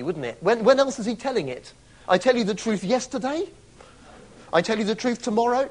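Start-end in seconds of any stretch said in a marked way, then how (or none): 2.1-5.7 mocking rise on "yesterday" and "tomorrow"; mock absurd reading. Shown as a demonstration. Preacher mocking a pointless reading, absurd rising lines. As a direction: ask it as a silly question. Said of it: "that would be a tautology".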